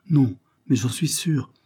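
drawn-out, earnest assurance, lightly acted; insisting. A narrator's reading. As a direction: hold firm as an unhappy mother. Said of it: "insista la malheureuse mère".

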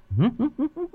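high soft ghostly giggle rising; a spirit's creepy little laugh; eerie high giggle. Acted. Possessed wife giggles in a high ghostly voice. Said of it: "nét cười ma mị".

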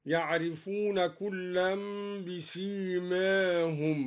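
slow recitation, alif of بسيماهم slightly tilted toward e; taqlil. Shown as a demonstration. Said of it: "وكذلك قلل قوله تعالى".

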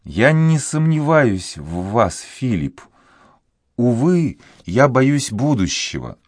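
put-on a heartbroken girl vowing fidelity; young woman pleading; grieving girl. A narrator's reading. Voices the girl Juana.

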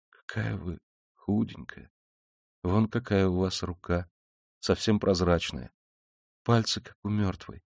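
hushed compassionate observation; quiet and tender. A narrator's reading. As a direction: speak gently, taking your time. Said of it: "тихим и ласковым голосом".

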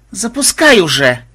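high, loud, drawn-out groan of impatience; acted exasperated moan; moaning plea. A narrator's reading. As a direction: wail it out slowly. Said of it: "простонала Мелисса".

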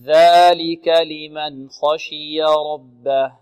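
very slow, drawn-out tajweed recitation; Quran recitation. Shown as a demonstration. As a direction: stretch each vowel as a model for the student. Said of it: "teacher recites model". (تلاوة مرتلة بطيئة)

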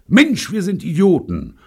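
high, loud outburst; sudden cry. A narrator's reading. Bunny suddenly realises nobody can fly, crying out. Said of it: "schrie Bunny plötzlich".

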